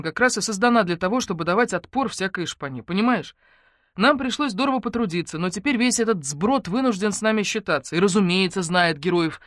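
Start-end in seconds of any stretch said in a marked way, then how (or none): none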